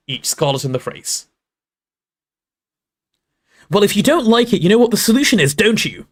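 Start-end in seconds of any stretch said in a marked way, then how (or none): 3.7-6.1 high, loud furious Hermione shouting at Ron; angry yell. Acted. Hermione yells at Ron during their blazing row, high and furious. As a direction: spit the words out in a rage. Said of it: "yelled Hermione".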